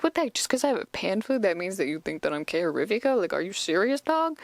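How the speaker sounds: mildly indignant, pitch jumping at the start; a touch of affronted protest, rattled off; upset. Acted. Professor defending his pan flute, mildly upset. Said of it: "like, all upset and he's like".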